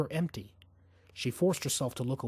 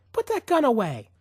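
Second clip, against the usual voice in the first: frightened demand; 9 semitones higher, 6 dB louder than usual. A narrator's reading. Woman orders gunman.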